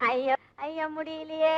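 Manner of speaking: drawn-out helpless moan; groaning with strain. Acted. Told to sit down, groaning with strain. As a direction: groan as if sitting down is too hard. Struggling to sit down while pregnant.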